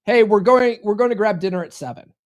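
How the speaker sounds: commanding tone of a man deciding dinner; firm command. Shown as a demonstration. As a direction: announce the plan, no question. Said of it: "Instead, say".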